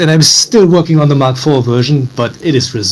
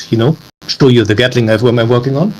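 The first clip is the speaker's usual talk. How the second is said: sultry voice. Pretend. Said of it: "in the sultry voice sort of thing".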